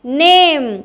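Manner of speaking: "नेम" with a long ay, ending on m; long ay, silent e. Shown as a demonstration. Teacher showing the silent final e, "नेम" with long ay. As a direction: stretch the ay of "नेम" and close on m. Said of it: "सिर्फ ए का होगा".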